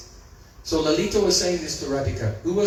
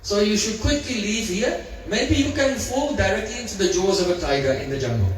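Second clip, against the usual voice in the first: raised, mocking, boldly spoken taunts; bold teasing Lalita. The speaker as Lalita teasing Sarangi, raised mocking taunts. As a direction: tease the little girl like bold Lalita. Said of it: "very convincing impression of Lalita Sakhi ... very boldly spoken".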